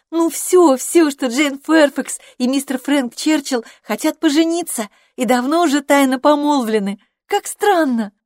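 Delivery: put-on a chatty young woman spilling a secret; young Harriet, gossiping. A narrator's reading. Harriet voiced through the scene. (восторженная юная болтушка)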